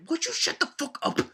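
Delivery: high, fast squeaky snap; mock exasperated. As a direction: shriek it in fake annoyance.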